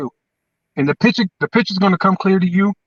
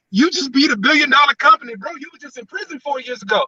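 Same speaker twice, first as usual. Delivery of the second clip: excited praise; 8 semitones higher than usual. Real, not acted.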